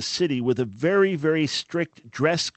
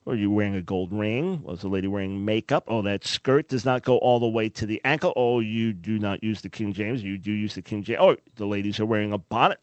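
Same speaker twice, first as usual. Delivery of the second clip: low-pitched impression of a fault-finding churchgoer; lightly voiced rule-policing scold; mock legalist; 5 semitones lower than usual. Self-righteous church member policing superficial things, mock legalist.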